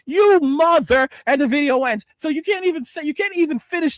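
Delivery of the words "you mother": cut-off curse. Real, not acted. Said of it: "the anger and the frustration".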